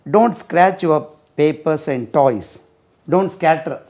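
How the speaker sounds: slow, clear model sentence. Shown as a demonstration. Teacher modelling slowly for students to repeat. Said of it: "model sentence".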